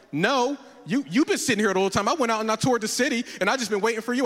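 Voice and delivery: quick, mock-defensive retort; bluffing denial. Caught on the bench, bluffing to his friend, hurried denial.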